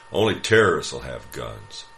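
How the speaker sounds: loud declaration, punching terrorists; shouting. Acted. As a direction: finish the slogan at full volume. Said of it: "he shouted at a table".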